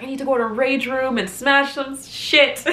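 high, hammed-up mad outburst; mock furious venting; retold anger. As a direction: act out wanting to break things, half laughing. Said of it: "I'd be so mad".

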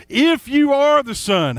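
high, slow and taunting, like the devil; sly devil voice. Retold or imitated. Preacher voicing Satan tempting Jesus, slow and high. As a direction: draw out the devil's doubt.

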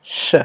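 "ch" said alone as a hushing consonant; final "ch" detached from its word; isolated sound. Shown as a demonstration. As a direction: sound out "ch" separately. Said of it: "première syllabe".

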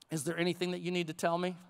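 low-pitched, quick parental probe; probing parent. Retold or imitated. Father fishing for a child's confession, probing. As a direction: ask it low, as if you already know. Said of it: "And I say".

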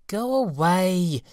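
high, slow, drawn-out go away; fairy calling. Acted. Fairy calling to the birds, high and slow. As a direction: wave them off lazily. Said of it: "called the apple fairy".

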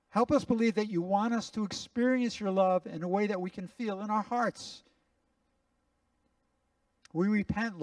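earnest spoken prayer to the Father; a pastor praying over his listeners. Acted. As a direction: pray aloud for the whole room, earnestly. Leads the congregation in prayer.

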